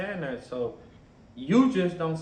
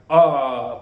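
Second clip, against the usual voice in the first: mock alarmed ah; 3 semitones lower, 10 dB louder than usual. A Mexican who sees a black man, hammed-up startled cry. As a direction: yelp it like you just got spooked. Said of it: "they could probably be like".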